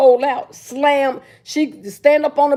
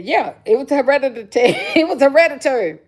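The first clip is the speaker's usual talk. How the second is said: laughing; 2 semitones higher than usual. Real, not acted.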